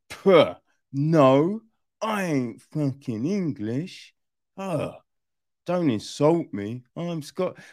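lightly put-on Scottish accent; a hint of Scottish indignation; mock Scottish. Imitating Gerard Butler's film line in light Scottish accent. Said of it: "you get the lines of".

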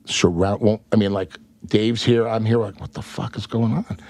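usual speaking voice

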